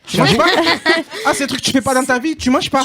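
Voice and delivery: surprised. Real, not acted. Mock amazement at caller.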